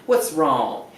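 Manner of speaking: imitating a Texas lady, slowed on what's wrong; Texas sweetheart. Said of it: "in Texas they call everybody sweetheart".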